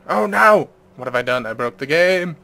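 mock panic. Real, not acted. Game freezes on loading screen.

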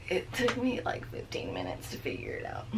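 breathless after the effort; winded, gasping a little; out of breath. Real, not acted. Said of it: "I'm a little out of breath right now".

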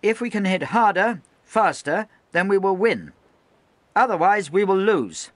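high, loud stern speech; rally and warn the men at once; loud harangue. Acted. Lieutenant addressing the gun crews, high loud harangue.

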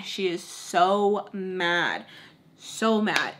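"so" stretched out long before "mad"; slow, weighty stress on "so"; drawn-out emphasis. Real, not acted. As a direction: lean slowly on "so mad". Stressing how mad mom was.

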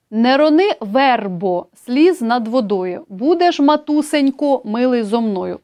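slow, lifted reading of verse; poem recitation. Shown as a demonstration. Teacher reciting a poem example to students, expressive recitation. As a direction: recite the line like a poem to the class.

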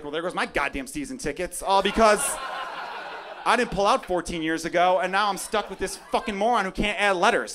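hammed-up furious father, shouting; mock angry dad rant. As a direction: rant at the kid, half laughing. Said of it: "And I'm gonna be like".

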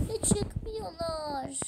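very slow, soft, whining question; whiny complaint. Real, not acted. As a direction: drag it out like a sulky cry. Stuck in game, whining. (sızlanarak, yavaş)

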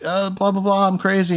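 high, babbling mock madman; mock crazy Archer. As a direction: rattle off nonsense like a lunatic. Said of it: "he's like".

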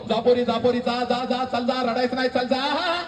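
high, urgent father shooing his daughter off; imitated father hurrying her away, pitch climbing; forced cheerful send-off. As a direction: put on a brave send-off, repeated and high. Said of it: "तुला हसत हसत म्हणतो".

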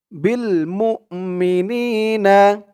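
slow chanted recitation; tajweed-style reading; Quran recitation. Shown as a demonstration. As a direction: draw out মুমিনিনা in a recitation tune. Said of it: "teacher recites the assembled word".

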